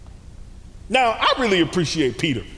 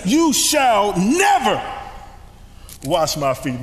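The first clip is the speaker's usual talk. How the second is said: slow, louder indignant refusal; 3 semitones higher, 3 dB louder than usual. Retold or imitated. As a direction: draw out never in outrage. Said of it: "And Peter, indignant".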